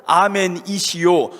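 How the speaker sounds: 아멘이시오 drawn out slowly, each syllable weighted; slow emphasis on the title. Shown as a demonstration. Pastor to congregation, explaining the title, slow stress. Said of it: "누구이시오라는 뜻이잖아요".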